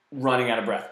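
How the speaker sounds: ordinary talk, nothing marked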